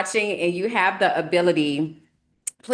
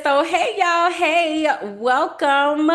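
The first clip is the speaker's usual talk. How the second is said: high, louder cheerful greeting; excited welcome back; 9 semitones higher, 5 dB louder than usual. Real, not acted. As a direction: burst back in with energy. Bright welcome after intro.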